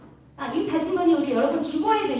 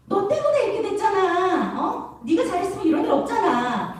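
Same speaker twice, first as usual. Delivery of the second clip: mock blaming; 6 semitones higher than usual. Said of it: "이렇게 원망".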